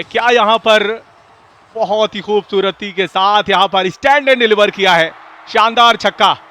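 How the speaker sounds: loud, thrilled call of a six; excited cricket commentary. Real, not acted. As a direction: build up and burst out. Commentator calls a big six.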